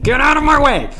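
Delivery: high, forceful mock shout; mock angry yell. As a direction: yell it in hammed-up impatience. Mock threat to annoying people.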